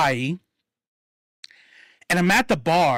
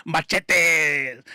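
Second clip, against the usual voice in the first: "Machetes!" as mah-CHEH-teh in a Spanish accent; Spanish-accented exclamation; 2 semitones lower than usual. Shown as a demonstration. Repeats word with Spanish flair.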